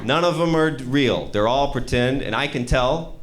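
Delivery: ordinary talk, nothing marked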